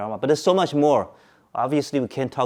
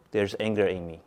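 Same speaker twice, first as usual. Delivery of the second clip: calm noting; 3 semitones lower, 4 dB quieter than usual. Shown as a demonstration. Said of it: "Do you see the difference?".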